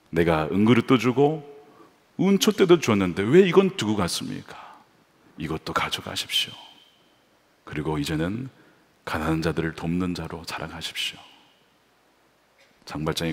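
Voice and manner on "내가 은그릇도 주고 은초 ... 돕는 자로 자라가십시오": soft, low tender pardon; gentle bishop. Retold or imitated. Bishop forgiving Valjean, soft and tender. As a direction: hand him the candlesticks kindly.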